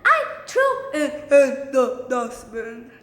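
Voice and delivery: loud high shriek, dropping as it goes; acted student yelling back; angry mock yell. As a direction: shriek back in hammed-up protest. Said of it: "yelled back angrily".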